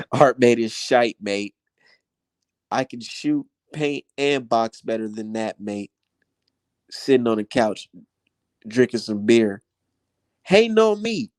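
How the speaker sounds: lightly mocked British fan voice; a hint of a cheeky Brit sneering; half-hearted British troll impression; mocking British accent. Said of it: "this is what I see".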